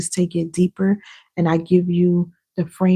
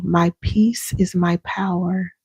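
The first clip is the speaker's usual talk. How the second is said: affirmation demo; 3 dB quieter, slower than usual. Shown as a demonstration. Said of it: "lay your hand on your heart and say".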